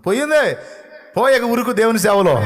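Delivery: high, loud triumphant cry; excited shout. Acted. Preacher celebrating the healing before the congregation, shouting. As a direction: burst out in joy. Preacher exults over healed sugar.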